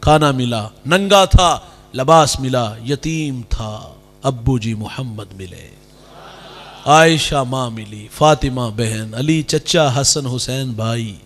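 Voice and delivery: slow, low, moved recital of blessings; slow, hushed, emotional child's boast; proud orphan. Retold or imitated. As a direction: let each loss turn into pride, slowly. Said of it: "فخر سے کہتا ہے".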